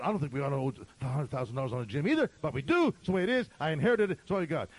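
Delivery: loud, heated, quick retort; getting steamed. Retold or imitated. Pastor answering the stranger about the debt, getting steamed. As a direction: snap back with rising irritation. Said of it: "I'm starting to get steamed".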